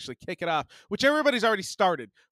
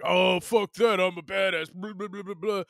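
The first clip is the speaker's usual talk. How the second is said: mocking Duper. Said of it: "Duper came out of nowhere".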